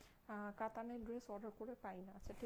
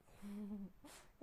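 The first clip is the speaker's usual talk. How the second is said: soft chuckle; 4 dB quieter than usual. Real, not acted. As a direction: chuckle briefly to yourself. Host chuckles after losing her words.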